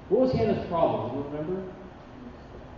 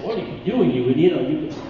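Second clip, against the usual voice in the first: a harsh mother scolding her son, half laughing; mock scolding mother; 5 dB louder, faster than usual. Mother scolding the king as an idiot, mock harsh. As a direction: snap it at him, ending in a laugh. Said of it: "who's not just saying".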